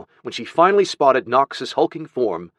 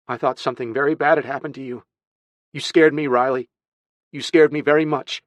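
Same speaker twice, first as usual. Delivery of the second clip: higher, urgent reproach; emotional, pitched-up reproach; upset scolding; 5 semitones higher, 3 dB louder than usual. Acted. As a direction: tell the child off out of fright. Frightened aunt scolds missing boy.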